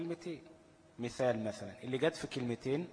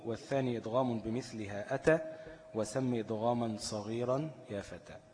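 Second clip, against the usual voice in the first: reciting a poem verse. Shown as a demonstration. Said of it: "وشاهده من التحفة قوله".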